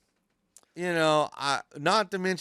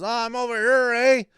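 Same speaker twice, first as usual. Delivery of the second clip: 1 mock answer; 13 semitones higher, 6 dB louder than usual. Inmate answers from kitchen.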